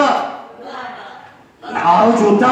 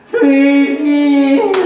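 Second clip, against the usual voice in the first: raised, drawn-out lover's call; plaintive plea; 4 semitones higher, slower than usual. Shown as a demonstration. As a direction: stretch the name out pleadingly. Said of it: "애절하게 불면". (길고 애절하게 부르듯)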